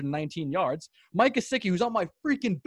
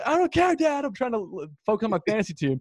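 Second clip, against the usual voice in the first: mock frantic reply; 3 semitones higher than usual. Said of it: "I'm just like".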